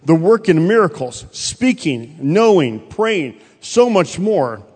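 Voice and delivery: preacher stressing every phrase; emphatic preaching. Real, not acted. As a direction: drive each point home to the congregation. Preaches the key point.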